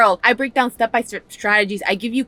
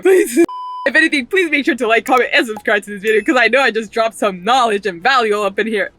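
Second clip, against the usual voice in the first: excited. Real, not acted. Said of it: "I just got a little too excited".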